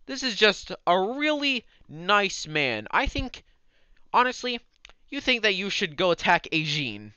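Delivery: put-on loud, slurring overfriendly drunk; town drunk. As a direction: slur it like a chummy drunk. DM voices mage charming again.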